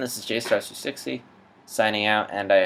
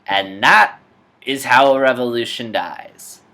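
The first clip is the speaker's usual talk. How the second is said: movie villain line; 3 semitones higher, 9 dB louder than usual. Acted. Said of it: "Mockingjay Part One".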